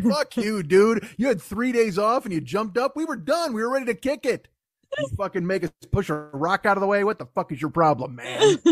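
mock-exasperated griping; acted aggrieved rant, rising in pitch; pissed off. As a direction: complain like overworked labor denied its rest. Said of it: "even Jesus's knees are pissed off".

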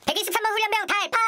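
military roll call shout. Acted. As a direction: snap out the answer like a recruit. Recruit answers roll call.

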